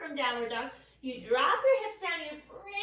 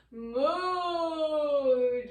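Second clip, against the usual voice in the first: a louder moo; cow moo; 5 dB louder than usual. Shown as a demonstration. Teacher repeating cow pose with kids. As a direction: moo as the belly drops. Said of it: "Drop that belly".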